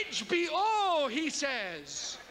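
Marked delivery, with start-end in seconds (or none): 0.1-1.1 slow, grand and confident, louder; great aplomb. Shown as a demonstration. Comic showing off the word to the crowd, with aplomb. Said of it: "I say this with great aplomb".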